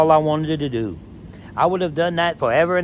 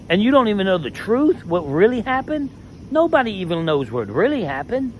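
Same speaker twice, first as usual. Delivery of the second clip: ranting; 6 semitones higher than usual. Real, not acted. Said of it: "and that is a rant".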